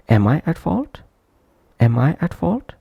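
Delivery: "Am" said fully and strongly, question rising on "fault"; prominent full-form "am". Shown as a demonstration. Teacher demonstrating the full-length form, "Am" pronounced prominently. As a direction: give "Am" its whole vowel, then lift at "fault". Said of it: "that's why pronounced prominently".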